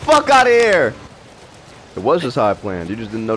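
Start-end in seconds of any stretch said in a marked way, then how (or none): 0.0-0.9 high screaming fury; berserk rage. Real, not acted. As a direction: shout it mid-fight, all out. Screaming while fighting in the game.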